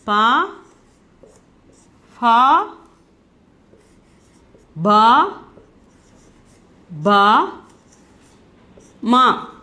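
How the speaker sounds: "Pa, fa, ba, ba, ma" one by one with long pauses; reciting letters. Shown as a demonstration. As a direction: recite "Pa, fa, ba, ba, ma", each drawn out alone. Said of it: "pa family".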